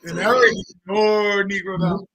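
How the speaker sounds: loud, high hype-man rant; mock hype. Hyping up his friend's prediction with a loud, high mock sermon.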